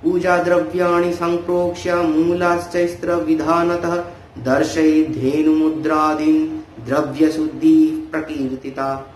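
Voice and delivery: measured, level-toned scripture recitation; Sanskrit verse recitation. Acted. Teacher quoting the tantra on purifying offerings, Sanskrit verse recitation. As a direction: recite with drawn-out syllables.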